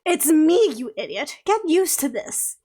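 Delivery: lightly voiced haughty lady; sassy fairy voice. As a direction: tease them into making amends. Esme's character voice.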